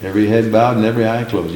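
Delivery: rattled off fast, brushing it aside; fast, mildly mocking repeat; quick dismissive. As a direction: toss the phrase away quickly. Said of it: "Just the opposite".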